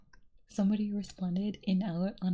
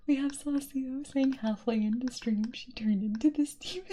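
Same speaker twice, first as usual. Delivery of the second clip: laughing; 5 semitones higher than usual. Real, not acted. Laughing while reading a chat quote.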